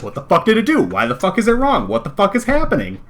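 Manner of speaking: high, exasperated mock rant; retold fury. Retelling his meltdown over the plugin, high and exasperated. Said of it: "I was just like".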